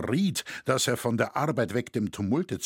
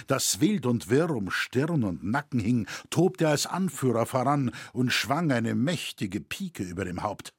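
ordinary talk, nothing marked

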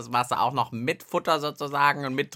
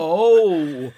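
surprised; 10 dB louder than usual. Real, not acted. Sees big bin of water.

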